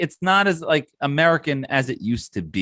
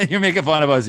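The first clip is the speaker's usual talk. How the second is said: laughing; 5 semitones higher, faster than usual. Acted. Teasing rival fans, laughing.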